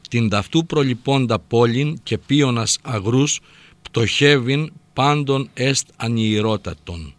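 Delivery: slow, measured reading of verse; declaimed classical Greek verse; ancient verse recitation. Acted. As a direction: recite it slowly, word by word. Reads ancient verse aloud.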